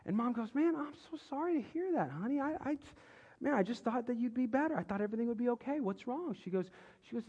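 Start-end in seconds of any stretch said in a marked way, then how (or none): 0.6-6.4 sympathetic mother. Retold or imitated. Retold mother consoles her son.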